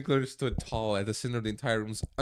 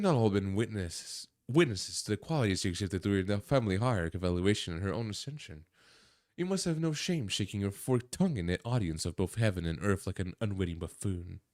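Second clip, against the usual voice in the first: lower, contemptuous condemnation; scornful accuser; 6 semitones lower than usual. Acted. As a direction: sneer it down at a fool. Accuser's scornful closing lines.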